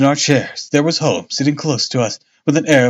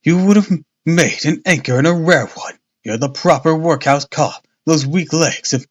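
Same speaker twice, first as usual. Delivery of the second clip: wrong voice; 2 semitones higher than usual. Acted. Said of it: "oh, wait, no, this is all Jones".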